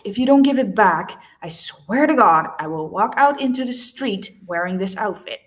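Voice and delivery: loud, heated threat; threatening. Acted. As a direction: dare him angrily. Girl threatens, eyes narrowed.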